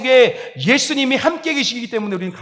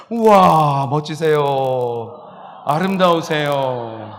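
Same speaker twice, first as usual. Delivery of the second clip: admiring wow; 4 semitones lower, much slower than usual. Shown as a demonstration. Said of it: "감탄 한번 해보세요".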